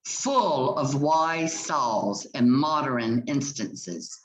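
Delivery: measured, slowed reading of verse, lines given room; poem recitation. Acted. Teacher reading Jacques' speech to her class, measured recitation. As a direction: read it aloud like a poem for the class.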